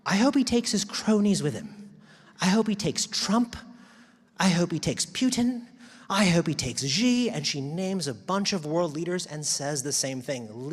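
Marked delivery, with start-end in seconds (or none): 0.1-7.3 loud, high-pitched mounting tirade; retold crash-out. Quoting Jane Goodall listing leaders to send away, crashing out. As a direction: imitate her crashing out, each name hit hard. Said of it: "She crashed out".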